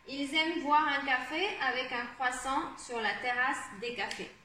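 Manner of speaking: clear, measured teacher's read-aloud; reading text aloud. Shown as a demonstration. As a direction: read the text phrase by phrase for learners. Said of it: "on va d'abord lire le texte".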